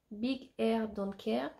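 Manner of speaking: English in a French accent; slow, careful English with a French accent. Real, not acted. Mum reading a doll's English brand name to viewers, French accent. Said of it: "pardon pour mon accent".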